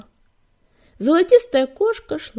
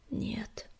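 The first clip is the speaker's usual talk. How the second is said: sighing; 11 dB quieter than usual. A narrator's reading. Firestar answers his nephew and niece, sighing. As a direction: say it softly, as on a sigh. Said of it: "вздохнул Огнегриф".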